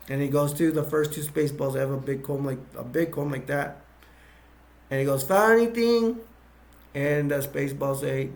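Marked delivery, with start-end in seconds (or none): 5.2-6.2 barked question. Retold or imitated. Dark Helmet checks on troopers.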